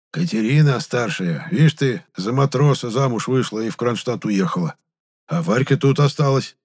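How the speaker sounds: old man explaining his household, lightly acted; lightly voiced country grandad; lightly voiced old villager.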